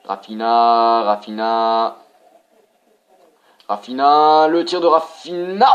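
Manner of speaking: calls of the name building into a loud shout; rising excitement. Real, not acted. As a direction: build from a call to a roar as the shot goes in. Goal chance in live commentary.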